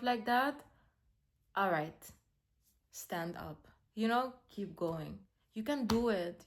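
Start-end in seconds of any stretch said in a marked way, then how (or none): 1.6-6.4 gentle pep talk. Real, not acted. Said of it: "encouraging herself to continue".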